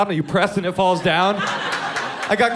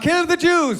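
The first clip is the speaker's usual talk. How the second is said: mock screamed heckle; 10 semitones higher, slower than usual. Hitler heckling at the comic's show, a mock scream. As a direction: bellow it from the crowd. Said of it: "He screamed out".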